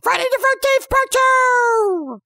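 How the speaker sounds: high, slow, loud title announcement; movie trailer voice. Acted. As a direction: boom it like a trailer.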